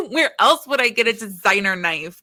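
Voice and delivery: amused, laughing at the joke. Real, not acted. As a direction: chuckle while making the point. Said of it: "laughs at own joke".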